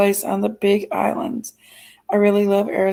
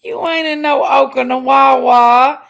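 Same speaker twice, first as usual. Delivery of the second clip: playful shout; 4 dB louder than usual. Acted. Teasing a viewer in chat.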